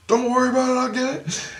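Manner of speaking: high, put-on cheerful voice; Jesus reassuring. Jesus reassuring the dreamer, high and eager. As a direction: play Jesus calmly taking charge.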